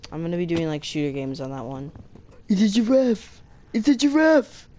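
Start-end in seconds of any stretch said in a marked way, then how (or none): 2.5-4.7 high, loud, overjoyed cry; reciting a favourite line, much higher and louder; excited recited line. Retold or imitated. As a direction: shout it out like a thrilled kid. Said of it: "I'm not gonna recite Cringe Minecraft things".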